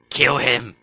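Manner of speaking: repeated loud shout. Real, not acted. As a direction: yell it again. Urging an attack.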